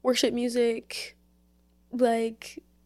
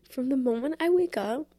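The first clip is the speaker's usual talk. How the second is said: getting emotional; 3 semitones higher, 4 dB louder than usual. Real, not acted. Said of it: "oh my God, I'm gonna get emotional".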